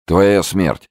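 cold threat like a gunshot; shot out like a bullet. A narrator's reading. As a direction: fire the words at him. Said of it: "словно выстрелил".

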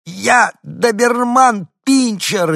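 very high, slow squeal; little dog protesting in the lady's arms, squealing; small dog squirming. A narrator's reading. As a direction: squeal it while wriggling free. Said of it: "извивался Дуля".

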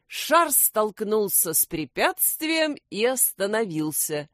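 plain reading voice

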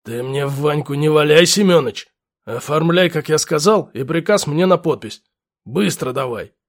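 bossy lieutenant giving orders; gruff lieutenant. Acted. Lieutenant voiced with pipe.

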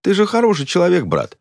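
loud, high call across the queue; blurting it out for all to hear. A narrator's reading. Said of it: "сказал он так громко". (громко, на всю очередь)

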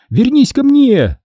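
high loud call after someone. A narrator's reading. Boy calls after the fleeing dog, loud and high. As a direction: call her back as she runs.

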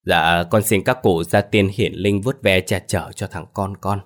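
slow, lightly murmured plea; measured altar prayer, lightly acted. A narrator's reading. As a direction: pray slowly to the ancestors. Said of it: "bắt đầu lẩm nhẩm khấn vái".

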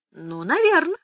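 ordinary delivery, nothing marked

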